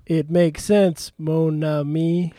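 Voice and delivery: put-on slow Cajun French accent. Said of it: "I like your accent".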